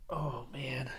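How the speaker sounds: very soft, breathy wonder; hushed marvel under the breath; awed whisper. Real, not acted. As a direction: whisper it, overcome with delight. Marvelling as he reaches for rifle.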